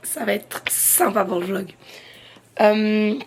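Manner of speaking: hoarse, voice almost gone; lost voice, talking through it. Real, not acted. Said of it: "j'ai perdu ma voix".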